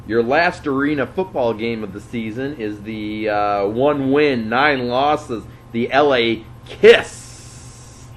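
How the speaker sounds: slow, drawn-out announcer call; milk the team name like a ring announcer; mock-grand intro for a losing team. Announces matchup records.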